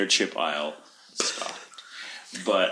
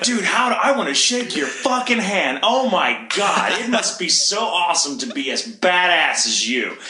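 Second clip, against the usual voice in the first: mock admiration; 6 semitones higher than usual. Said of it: "I'm just like".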